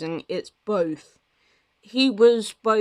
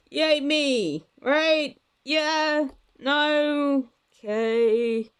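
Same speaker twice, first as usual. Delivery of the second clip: playful; 7 semitones higher, much slower than usual. Real, not acted. Fishing for agreement.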